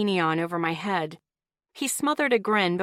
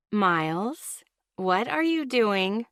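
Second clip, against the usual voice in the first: sweet voice; slower than usual. Acted. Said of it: "I asked in my sweet voice".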